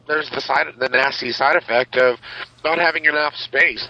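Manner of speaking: normal talking voice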